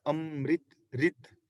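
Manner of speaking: ਅੰਮ੍ਰਿਤ as "amrit", then ਰਿਤ alone as "rit"; short i on the r. Shown as a demonstration. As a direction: break off the last syllable of ਅੰਮ੍ਰਿਤ to show "rit". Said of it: "ਰਾਰੇ ਨਾਲ ਬੋਲੇਗੀ".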